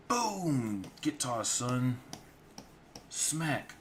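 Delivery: excited action shout. Acted.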